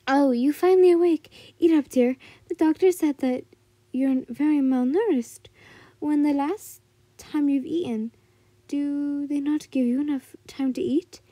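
put-on loud, caring old granny; old woman voice. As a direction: fuss over her like a worried grandma. Old woman fusses over patient.

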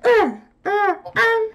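high, slow gleeful crowing; gleeful triumph. Real, not acted. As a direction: crow it out like you escaped. Escapes, gloats in game.

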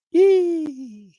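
high whooping yee; excited yelp. Real, not acted. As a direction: let out a happy whoop.

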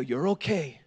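low, soft retold comfort; calm a hurt child gently; understated fatherly soothing; imitating reassurance. Reassures hurt son in story.

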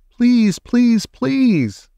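high, insistent begging call; pleading shout. A narrator's reading. Annie begs the octopus again and again, shouting. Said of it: "she shouted".

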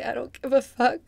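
emphatic. Shown as a demonstration. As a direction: throw the words out boldly. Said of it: "Just say".

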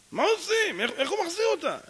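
high, loud outburst of helplessness; acted frantic questioning; frantic dilemma. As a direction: cry it out like there is no way out. Teller acts out desperate dilemma.

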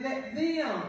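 "them" set firmly against "me"; stress on THEM. Shown as a demonstration. Preacher correcting a reading of scripture, stressing "them". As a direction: land on "them" with a falling tone. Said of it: "It don't say, "Let me," it said".

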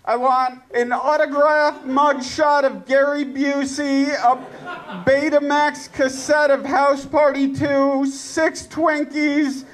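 lightly acted terrorist listing demands; mock hostage taker. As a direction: issue absurd demands, spaced out item by item. Playing hostage taker issuing demands.

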